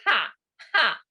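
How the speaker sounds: forced ha ha ha; laughter yoga ha ha; demo laugh. Shown as a demonstration. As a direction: squeeze out a laugh. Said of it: "The squeezing it out will be ha".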